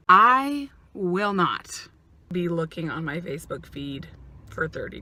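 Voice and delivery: whisper. Shown as a demonstration. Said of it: "but I will not".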